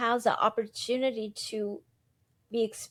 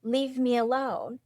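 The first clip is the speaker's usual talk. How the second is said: dismissive brush-off; 4 dB louder than usual. Retold or imitated. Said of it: "keep ignoring it and saying".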